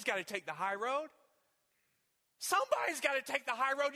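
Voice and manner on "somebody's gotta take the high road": higher, louder repeat that drives it home. Acted. Preacher repeating the call to the congregation, louder and higher. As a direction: hammer it home the second time. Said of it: "repeated louder".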